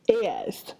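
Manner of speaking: suspense whisper. Acted. Whispered suspense before punchline.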